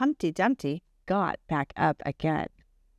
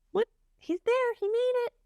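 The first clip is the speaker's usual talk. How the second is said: excited. Real, not acted. Cheering Humpty for the kids.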